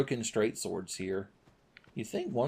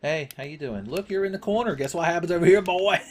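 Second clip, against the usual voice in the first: menacing enemy taunt; 7 semitones higher, 5 dB louder than usual. Acted. Voicing the cornering enemy.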